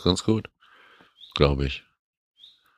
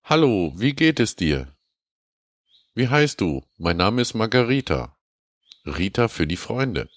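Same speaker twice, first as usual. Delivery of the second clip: high, sugary mock voice for a dating-scam mail; mock-sweet letter writer, pitched up; reading as scam woman; 5 semitones higher than usual. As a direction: read it as a coy stranger writing in broken German. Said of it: "Und zwar schreibt sie".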